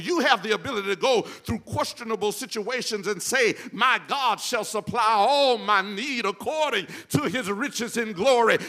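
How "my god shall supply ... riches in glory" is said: louder, building scripture quote; climbing declaration. Real, not acted. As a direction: let the promise swell. Preacher quoting scripture, climbing.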